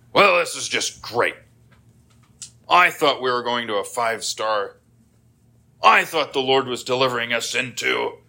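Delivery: mildly sarcastic grumble; mock grumbling. Israelites blaming God in the wilderness, mock grumbling. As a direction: complain as if let down, lightly hammed up. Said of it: "they start to grumble".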